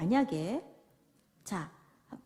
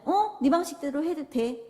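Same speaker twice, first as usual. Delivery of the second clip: careless parent; 5 semitones higher than usual. Acted. 무관심한 부모.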